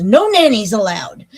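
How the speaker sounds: retold indignant child. Retells child caught red-handed.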